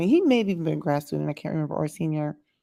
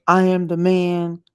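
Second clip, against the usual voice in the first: mock macho boast; 6 dB louder, slower than usual. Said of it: "they're very headstrong".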